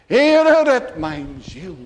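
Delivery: pleading cry to God, surging on "Heere"; imploring sinner's prayer; desperate cry. Acted. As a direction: cry out for rescue, then sink on the last words. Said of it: "dan blijft er niet anders over dan die schreeuw".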